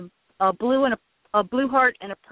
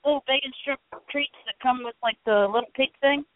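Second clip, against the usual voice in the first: crunching chips; 3 semitones higher than usual. Real, not acted. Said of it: "Excuse my crunching".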